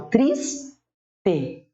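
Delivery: "Triste" split TRIS... TE, weak E falling away; slow two-beat "Triste" with clear final E; stressed first syllable. Shown as a demonstration. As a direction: hold TRIS, pause, drop onto TE in "Triste". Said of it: "essa é a sílaba átona".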